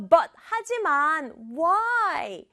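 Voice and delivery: slow, incredulous why; dumbfounded. Acted. Boy baffled by the demand, acting dumbfounded. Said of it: "막 황당해하면서".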